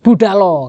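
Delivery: "Budalo" pressed hard as a firm order; a command with weight on "Budalo"; stressed command. Shown as a demonstration. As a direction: push the whole word "Budalo" like telling someone to go. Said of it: "itu ada tekanan".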